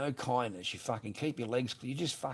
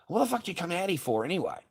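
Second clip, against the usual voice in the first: fast, louder angry demand; angry yell; 8 semitones higher, 4 dB louder, faster than usual. Retold or imitated. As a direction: demand it, furious. Retelling yelling at ex.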